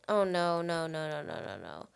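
low string of no's fading away; dismayed muttering. Real, not acted. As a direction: sink from low voice into near-whisper. Game breaks, dread building.

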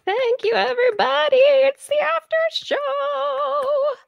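high sing-song. Acted. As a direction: chirp it brightly.

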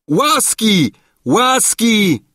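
high, pleading cry for mercy; crowd's shout. A narrator's reading. Crowd begging the king for mercy, loud cries. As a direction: call out like a whole crowd begging. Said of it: "zakrzyczał tłum".

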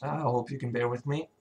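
hoarse sick voice; rough, cracking voice from illness. Real, not acted. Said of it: "sorry about my voice, I'm really sick now".

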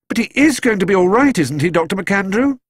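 high, loud, pleading cry; cried out. A narrator's reading. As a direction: beg the doctor in alarm. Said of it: "cried Judy".

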